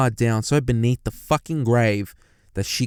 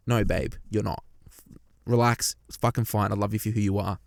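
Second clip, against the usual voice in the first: a softer, gentle line to a worried partner; soft reassurance; 2 semitones lower, 5 dB quieter than usual. Pretend. Reassuring a partner who feels fat, gently and softly. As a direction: soothe her like you mean it.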